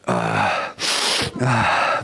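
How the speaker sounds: noisy sniff and low "ah"; demonstrated gross sniffing gulp; imitated snot swallowing. Shown as a demonstration. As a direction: snort it back, then sigh out low. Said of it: "막 이러고 먹으니까".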